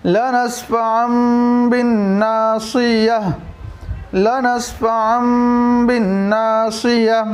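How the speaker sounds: slow chanted لنسفعا بالناصية; तिलावत का धीमा अंदाज़; Quran recitation. Shown as a demonstration. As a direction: recite each word slowly and carefully. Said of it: "तो पूरा जुमला होगा".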